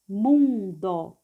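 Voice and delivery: "Mundo" with a held mun, then do; teacher's drawn-out reading of "Mundo"; syllable by syllable. Shown as a demonstration. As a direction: sound out "Mundo" in two beats. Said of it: "vamos ler passo a passo".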